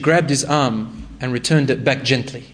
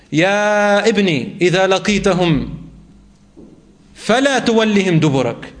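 calling out; 4 semitones higher than usual. Retold or imitated. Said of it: "he would call out".

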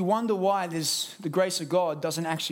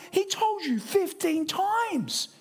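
much higher, slow exasperation; exasperated reader; 11 semitones higher, slower than usual. Retold or imitated. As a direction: spell it out, pitched high and drawn out. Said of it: "you're like".

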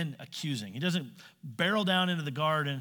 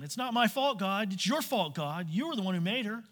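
whiny victim; 5 semitones higher than usual. Retold or imitated. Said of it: "he acts the victim".

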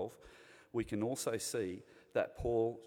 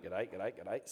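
lower, repetitive passing greeting; rolled-into-one greeting; 3 semitones lower, slower than usual. Retold or imitated. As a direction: run together like the repeating Nemo birds. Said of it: "Sounds like those birds".

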